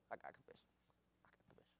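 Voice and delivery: low, soft confession; confiding hush. Real, not acted. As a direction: lean in and drop the voice. Preacher drops to confide.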